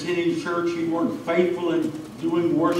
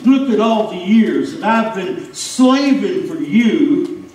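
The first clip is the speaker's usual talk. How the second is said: angry complaint; 2 semitones higher, 4 dB louder than usual. Acted. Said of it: "Can you hear the anger".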